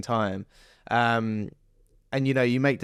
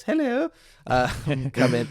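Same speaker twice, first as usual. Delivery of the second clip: hard nut character; 3 semitones higher than usual. Retold or imitated. Actor demoing his audition character, as a lightly voiced hard nut. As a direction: put on the hard-nut act. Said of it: "go in as the character".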